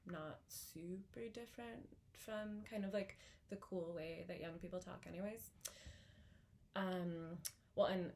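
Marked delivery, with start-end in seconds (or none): 0.0-5.5 California accent. Shown as a demonstration. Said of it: "I get California as well".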